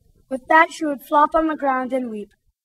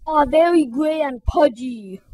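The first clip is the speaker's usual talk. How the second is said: smirking bully. Acted. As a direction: sneer the insult like a bully. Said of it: "said Rudy with a smirk".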